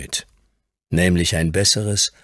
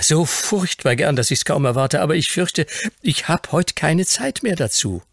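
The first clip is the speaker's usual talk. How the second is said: put-on high child character voice; long for it in a high boyish voice; eager, regretful Fauntleroy; 11 semitones higher, 4 dB louder than usual. A narrator's reading. Grandson longs to see the pony but must refuse, high eager voice.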